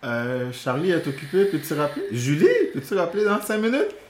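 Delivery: lightly acted gatekeeper, pitch climbing to a high question; phone-screening parent. Parent fielding calls from Charlie's girlfriends, mock phone screening.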